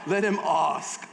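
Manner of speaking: slow, drawn-out British "ask"; attempted British accent. Shown as a demonstration. Preacher trying out the teacher's word, attempted British accent. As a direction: have a careful go at a British accent. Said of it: "I wish I had a British accent".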